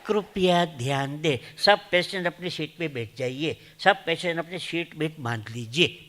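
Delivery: lightly voiced sweet air hostess; sweet announcement. Mimicking the flight attendant asking passengers to sit. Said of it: "એવું મીઠું મીઠું બોલે".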